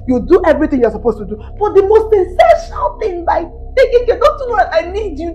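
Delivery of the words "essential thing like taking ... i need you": higher, sobbing cry; wife begs husband for affection. Acted. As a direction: let it break into a wail. Wife pleads, crying out.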